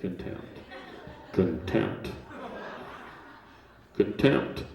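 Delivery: hushed, low mock-timid word; quietly, fearfully. Audience afraid of that word in court, imitated hushed voice. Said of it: "Everybody's saying it quietly in here".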